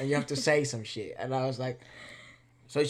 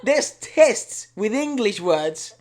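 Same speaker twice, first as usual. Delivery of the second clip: exasperated rant; 7 semitones higher, 8 dB louder than usual. Retold or imitated. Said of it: "telling her this in Spanish".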